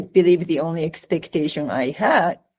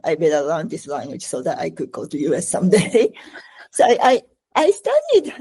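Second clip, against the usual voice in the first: laughing lightly through the words; faster than usual. Real, not acted. Recalling her school-days resolve.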